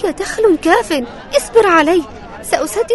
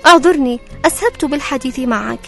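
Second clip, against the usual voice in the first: higher, pleading poor widow; 11 semitones higher, 4 dB louder than usual. Acted. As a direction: ask humbly like a poor widow. Widow talks to disguised king.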